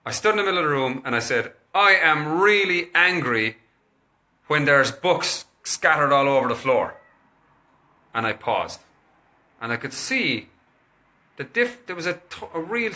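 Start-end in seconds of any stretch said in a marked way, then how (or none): 1.8-6.9 slow, firm, a touch of anger; controlled anger. Retold or imitated. Father telling sons calmly how angry the mess makes him. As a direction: state the anger slowly without blaming. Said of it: "I said it like that, that kind of aggression".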